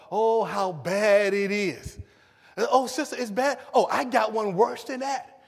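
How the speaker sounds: mock commiserating. Church sisters outdoing each other on the phone, mock commiserating. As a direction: wail in competition over troubles, hammed up. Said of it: "everybody talking about".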